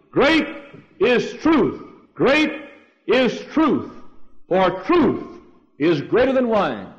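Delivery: a rallying cry from the feast crowd; crowd's shout. Retold or imitated. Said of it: "crowd ... was shouting".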